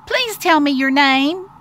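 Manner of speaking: high, eager little mouse voice; pleading little mouse. Acted. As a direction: ask it sweetly as a small mouse. Mouse begs bee for name.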